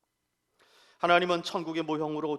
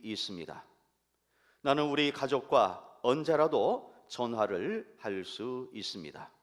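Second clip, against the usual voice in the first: poem reading. Acted. Pastor reads a poem to the congregation, tender recitation. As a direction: read the poem gently, letting lines fall. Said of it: "여러분께 읽어드리겠습니다".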